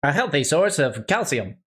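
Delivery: upbeat TV pitchman read; infomercial voice. Acted. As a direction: sell it like a late-night ad. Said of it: "your infomercial voice".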